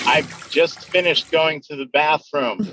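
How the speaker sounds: echoey room sound; echoing bathroom. Real, not acted. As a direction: voice echoing off tiles. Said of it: "it's just echoey".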